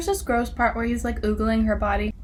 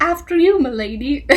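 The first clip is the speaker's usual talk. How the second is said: mock courtly call, high and loud; dorky gallantry; 5 semitones higher, 5 dB louder than usual. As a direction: imitate an over-the-top suitor. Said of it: "anything that dorky".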